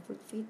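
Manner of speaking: quick nose sniffs, breathy; sniffing sound effect; sniffing noise. Shown as a demonstration. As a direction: sniff through the nose like a sick bear. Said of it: "ทำจมูกอย่างนี้ค่ะ".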